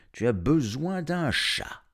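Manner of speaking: voix plus haute et lente, étonnée; un léger étonnement; vétérinaire étonné. A narrator's reading. Le vétérinaire au téléphone. (le vétérinaire à Arif, voix un peu plus haute)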